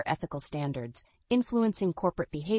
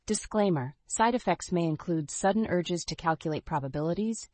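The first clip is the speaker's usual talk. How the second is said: upbeat retro commercial read; chipper 1950s ad. Acted. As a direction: sell it like an old TV ad. Ad tagline and disclaimer.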